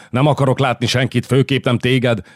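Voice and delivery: angry queen. Acted. Furious queen voiced.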